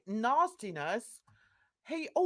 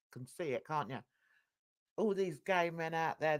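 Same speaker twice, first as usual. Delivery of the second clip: normal talking voice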